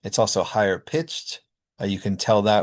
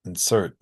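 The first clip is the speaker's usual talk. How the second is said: insert as in-SERT, stress on the second syllable; reduced first vowel. Shown as a demonstration. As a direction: weaken the start of insert, lean on SERT. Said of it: "they get reduced to uh or I".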